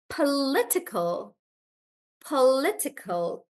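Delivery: political with li stressed. Shown as a demonstration. Teacher models political for the class, li stressed. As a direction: hit li in political. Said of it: "the stress changes from po to li".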